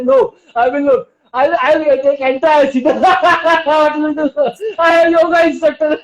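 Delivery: playful back-talk dissolving into high laughter; laughing at illness. Shown as a demonstration. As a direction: start in a lifted voice and break into long forced laughs. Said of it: "you can laugh on your disease".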